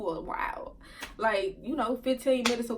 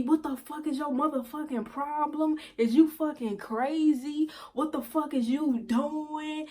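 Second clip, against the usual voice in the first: higher, slow, drawn-out outraged questions; angry confrontation; 4 semitones higher than usual. Retold or imitated. Boyfriend grabbing her in the club, angrily demanding answers. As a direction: stretch out each indignant question.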